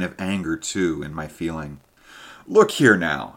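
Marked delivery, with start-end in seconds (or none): 2.5-3.3 louder, insistent call; cried out. Acted. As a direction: snap him out of it with a louder voice. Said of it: "I cried".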